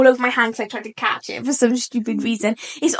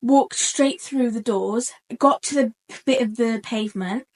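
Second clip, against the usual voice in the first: slow dramatic; slower than usual. Real, not acted. Dramatic retelling, slowing down.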